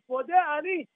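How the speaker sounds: high, deliberate proclamation; meant declaration. Shown as a demonstration. Rabbi showing a waking prayer truly meant, emphatic declaration. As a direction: say "Modeh Ani" as if you mean it. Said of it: "Say it".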